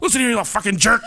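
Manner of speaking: high, laughing mock scold; mock stern dad. Father joking at his cheeky daughter, mock stern. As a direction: scold playfully through laughter. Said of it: "I was like".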